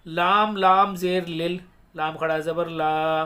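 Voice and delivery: slow, measured syllable-by-syllable chant; elongated Arabic recitation for learners; Quran spelling recitation. Shown as a demonstration. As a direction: spell out each syllable, then recite it joined, long vowels held. Hijja spelling and recitation demo.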